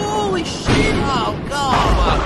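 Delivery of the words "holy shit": shocked exclamation. Acted. Lightning strike, panic.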